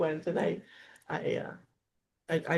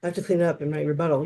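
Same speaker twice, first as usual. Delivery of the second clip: hushed, lower grumble, starting in a whisper; muttered exasperation; 3 semitones lower, faster than usual. Retold or imitated. Debate partner sighing over her teammate's mess, muttered exasperation. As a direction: imitate a partner grumbling under her breath.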